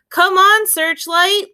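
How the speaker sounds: high, loud call to the dog; cried out. Acted. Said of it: "little Willie cried out".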